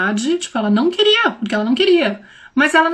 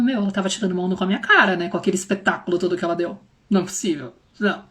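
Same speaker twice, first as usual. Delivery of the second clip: fast, softer disbelieving grumble; incredulous mutter; 5 semitones lower, 5 dB quieter, faster than usual. Retold or imitated. Parent muttering that the child was faking the tantrum. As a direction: grumble in disbelief under your breath. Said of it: "E você fica falando".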